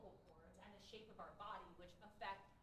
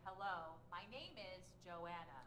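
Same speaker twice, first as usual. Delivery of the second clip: slow melody; 5 dB louder, slower than usual. Shown as a demonstration. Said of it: "let's do it again".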